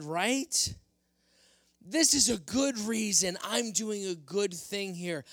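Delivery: pleading self-justifying king; excuse-making Saul. Acted. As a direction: talk your way out of trouble. Saul excusing himself to Samuel.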